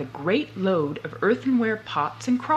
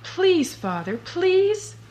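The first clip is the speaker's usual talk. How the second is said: high, slow begging; pleading; 11 semitones higher, slower than usual. Acted. Boots begging his father, high slow plea. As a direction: whine it up high like a child.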